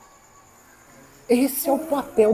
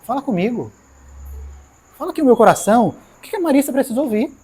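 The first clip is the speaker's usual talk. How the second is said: retold prayer; 3 semitones higher, faster than usual. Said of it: "a minha oração é".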